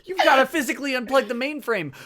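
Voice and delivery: hammed-up emergency; mock urgency. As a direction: rush out a frantic order. Mock hacker movie scene.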